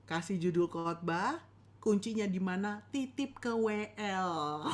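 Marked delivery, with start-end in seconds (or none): 2.9-4.6 slow deliberate tip. Shown as a demonstration. Teacher giving pastors a tip, slow and deliberate. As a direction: slowly spell out Titip ke W L, each word placed.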